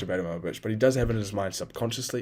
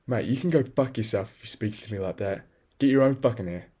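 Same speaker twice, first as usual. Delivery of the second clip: mock comeback building to a louder snap; defiant retort; 2 semitones higher, 4 dB louder than usual. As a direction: act out telling someone off, rising at the end. Acts out the retort never said.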